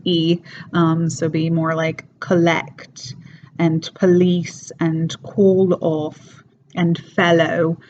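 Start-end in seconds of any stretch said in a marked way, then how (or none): 2.2-7.8 "collect", "police", "call off", "fellow" with the L clearly sounded; linking L kept. Shown as a demonstration. Teacher giving exceptions, L fully pronounced in "collect" and "fellow". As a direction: keep the L before each vowel in "collect and police and call off and fellow". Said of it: "it's still pronouncing that L".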